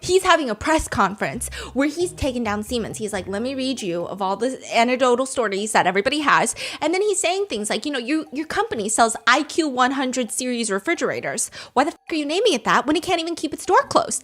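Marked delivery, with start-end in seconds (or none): 3.3-14.2 aggressive monotone. Retold or imitated. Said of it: "he's aggressive. This man is aggressive, monotone".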